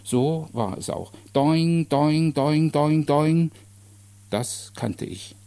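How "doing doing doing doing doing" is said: ringing "doing" held on a raised pitch; imitated clanging. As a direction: sound out metal bars struck in a row. Imitates stick on gate bars. (lautmalerisches Scheppern)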